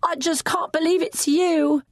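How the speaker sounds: high, stunned disbelief. Acted. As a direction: say it as if you can't believe your eyes.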